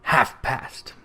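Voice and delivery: breathless whisper, counting the hour; hushed murmur of a man counting chimes. A narrator's reading. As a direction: whisper it to yourself in the dark. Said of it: "said Scrooge".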